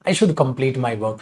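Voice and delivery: self scolding. Shown as a demonstration. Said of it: "खुद को ही थोड़ा डांट रहे हो".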